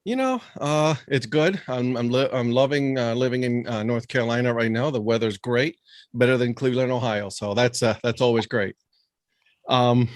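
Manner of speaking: lightly voiced goofy puppet host; goofy muffled sock puppet. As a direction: talk like a silly sock puppet. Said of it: "I'm a sock puppet".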